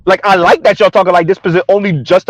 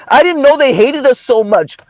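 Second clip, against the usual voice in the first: higher-pitched mimicked complaint; mock dismay; 5 semitones higher than usual. Host quoting Miss Jones's admission, mock dismay. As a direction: imitate her dismay, pitched up.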